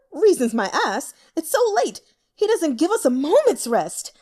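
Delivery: a peevish elder venting to his mistress; grumbling old official. Acted. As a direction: scoff at the emperor's late summons.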